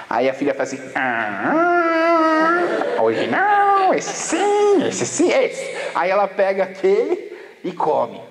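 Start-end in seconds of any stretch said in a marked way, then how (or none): 0.9-5.8 put-on eager little girl pointing at boxes; little girl choosing. Little daughter picking her cereal, squealing high and eager.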